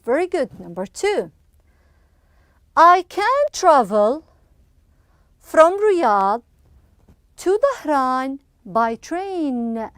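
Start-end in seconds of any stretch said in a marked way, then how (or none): 2.8-9.9 slow, with long pauses between phrases; slow model reading. Shown as a demonstration. Teacher first reading sentence two to pupils, slow and spaced out. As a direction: dictate it slowly, phrase by phrase.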